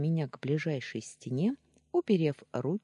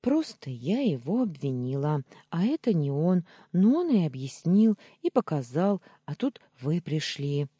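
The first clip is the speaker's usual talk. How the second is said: raised, breathless-sounding string of excuses; muddled jabbering; 4 semitones higher, 6 dB louder than usual. A narrator's reading. Heroine explaining herself to angry Daniil, flustered jabbering. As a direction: tumble through the excuse in bursts. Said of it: "сбивчиво затараторила".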